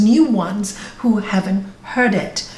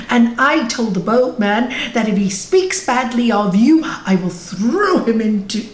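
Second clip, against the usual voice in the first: eager, lightly acted self-congratulation; proud boasting; 3 semitones higher than usual. Disciple telling the guru he was brave, proudly boasting. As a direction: report your bravery eagerly to your master.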